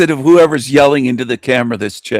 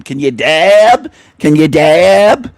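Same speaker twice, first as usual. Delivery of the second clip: slow drawled mock hick question, louder; 3 semitones higher, 5 dB louder, slower than usual. Mocking the loud woman in the clip, slow hick drawl. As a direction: sneer out a twangy dab question. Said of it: "Who's that with the hick voice, the loud woman".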